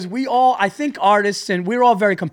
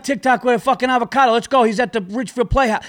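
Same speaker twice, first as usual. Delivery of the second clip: mocking audience voice; 8 semitones higher, 5 dB louder than usual.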